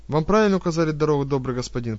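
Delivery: bow and scrape with the words; obsequious. Acted. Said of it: "подобострастно ответила она".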